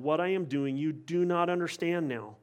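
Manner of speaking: soft, gentle, fading reassurance; calm him gently, letting it fade; Jesus answering Peter, softly and kindly; gracious reply. Retold or imitated. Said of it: "Jesus graciously responds".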